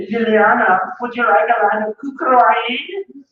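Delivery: slow offer with a mangled "Kukroin"; deliberate mispronunciation. Retold or imitated. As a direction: mimic someone botching cocaine as "Kukroin", drawn out. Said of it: "nobody ever says".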